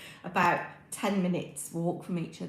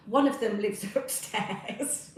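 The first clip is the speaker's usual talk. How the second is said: laughing; 4 semitones higher, 4 dB louder, slower than usual. Real, not acted. Chuckling about son living upstairs.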